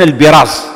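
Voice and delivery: "البراز" said as al-biraz; "البراز" with a short i after the b; kasra on the ba. Shown as a demonstration. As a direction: say "البراز" with bi at the start of the noun. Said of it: "بكسر الباء".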